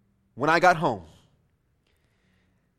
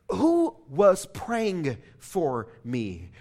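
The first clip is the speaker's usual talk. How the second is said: slow, deliberate question, each word pressed; cross-examining attorney; 4 semitones lower, 3 dB quieter, much slower than usual. Retold or imitated. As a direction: interrogate him like a lawyer in court. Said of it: "like that of a cross-examining attorney".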